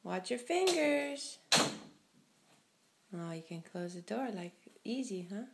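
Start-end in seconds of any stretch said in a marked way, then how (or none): 0.0-1.4 slower and higher, stretching fingers; slow, drawn-out warning. Real, not acted. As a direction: draw out fingers as a careful warning. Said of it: "repeated slower as warning".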